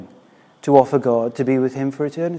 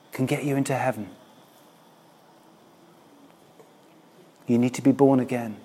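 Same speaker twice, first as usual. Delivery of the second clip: hushed, confidential aside, much softer; mock discreet whisper; 9 dB quieter than usual. Preacher imagining telling wealthy club members hard news, hushed. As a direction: murmur it discreetly, with long pauses. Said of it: "you have to whisper in these places".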